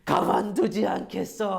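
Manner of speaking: slow, drawn-out, loud vengeful threat; hammed-up furious older brothers; acted seething anger. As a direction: stretch every word out like a storybook villain swearing revenge. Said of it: "화와 분노가 막 불타오르기 시작했어요".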